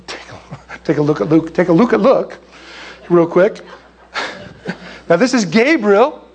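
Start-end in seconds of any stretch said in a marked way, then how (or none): 0.1-1.5 giggling through the tongue twister; laughing stumble. Real, not acted. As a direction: laugh while tripping on the words.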